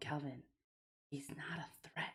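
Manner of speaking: very quiet, hushed whisper. Speaking in character, reassuring Calvin about a stranger: whispering. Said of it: "I'm gonna whisper to Cal-".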